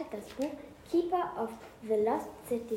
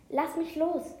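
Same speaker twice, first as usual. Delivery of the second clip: croaking; 5 semitones higher, 4 dB louder, slower than usual. Acted. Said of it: "krächzte sie".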